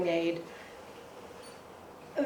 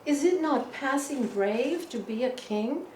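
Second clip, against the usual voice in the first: grand theatrical recital, a touch raised; declaiming verse; 3 semitones higher than usual. Retold or imitated. Father at dinner declaiming to his children, grandly. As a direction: proclaim Marlowe like a stage king.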